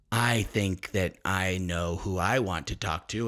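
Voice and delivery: put-on drunk at home alone. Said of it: "you're like".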